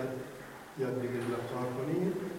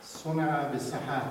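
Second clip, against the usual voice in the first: slow, carefully spaced demo of the phrase; demonstrated phrase; slower than usual. Shown as a demonstration. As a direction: say each word slowly as a model. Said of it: "مقامات توی عبارت".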